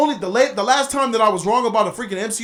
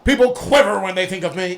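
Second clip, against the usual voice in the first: cheesy villain. Retold or imitated. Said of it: "He sound like a nineteen seventies villain".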